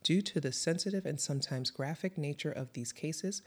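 soft, measured read of a show opener; serious, quiet announcement to listeners; scripted podcast intro. Acted. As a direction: read it as a sober content notice.

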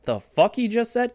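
high, drawn-out incredulous question; mock disbelief. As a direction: voice a stunned crowd. Crowd's shocked reaction voiced.

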